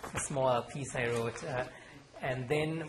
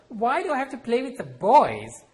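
put-on loud, higher childish demand; loud protest; 11 semitones higher, 11 dB louder than usual. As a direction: demand an answer from your mother.

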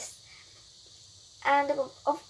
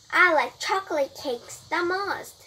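higher, lightly cheerful answer; happy; 6 semitones higher, 4 dB louder than usual. A narrator's reading. Brian tells the birthday fairy his favourite, happily. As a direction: answer with pleasure, pitch lifted. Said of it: "said Brian happily".

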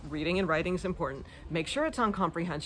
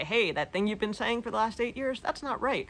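mock correction; 4 semitones higher than usual. Imagined partner correcting her over shoulder.

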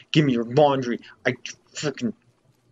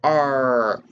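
mock angry growl; much slower than usual. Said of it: "I'm so angry".

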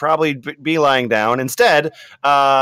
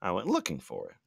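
Latina mom voice. Acted. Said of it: "more Latina, uh, Republican mom".

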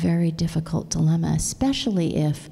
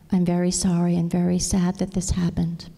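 soft and tender. Acted. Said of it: "softly said".

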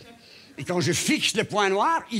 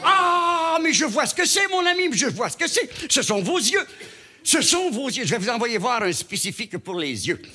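pompous doctor; 6 semitones higher than usual. Acted. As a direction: announce the diagnosis like a know-it-all. Doctor exclaims diagnosis.

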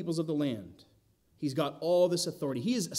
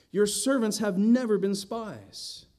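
slow, higher protest, stress on never; nervous protest; 5 semitones higher, 3 dB louder, slower than usual. Acted. Brothers protesting to Joseph, higher and anxious. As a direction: insist on never, voice tight with worry. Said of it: "You can tell they're nervous".

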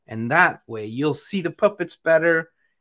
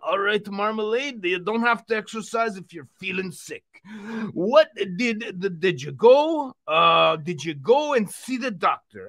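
upbeat puppet fitness host; cheery workout host, a bit higher; Uncle Vino puppet voice; 5 semitones higher than usual. Pretend.

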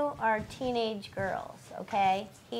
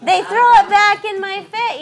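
high, loud indignant demonstration; getting angry; 8 semitones higher, 11 dB louder than usual. Shown as a demonstration. Coach shows actor the producer's outburst, getting angry. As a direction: hit it hard, as if losing your temper. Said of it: "losing it means he's getting angry".

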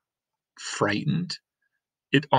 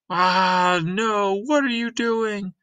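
higher, flustered mayor; startled mayor; 10 semitones higher, slower than usual. Acted. Mayor pelted by the crowd, flustered and higher. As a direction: react to things thrown at you.

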